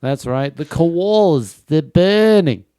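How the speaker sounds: loud, high mock Australian; Australian accent. Australian announcing burning koalas, Australian accent. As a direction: build up in broad Aussie vowels. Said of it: "my impression of an Australian person".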